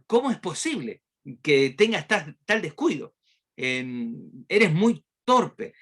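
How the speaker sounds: the offended little ant telling off the elephant; angry ant. Acted. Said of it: "se sintió muy enfadada".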